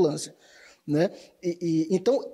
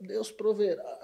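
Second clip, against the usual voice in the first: put-on Bahia accent; 2 semitones lower, 7 dB quieter, slower than usual. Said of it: "Você falando com sotaque baiano".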